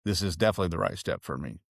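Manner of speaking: understated, assured statement; settled certainty. Retold or imitated. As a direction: quote a decision now firmly made. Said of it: "helped you go from".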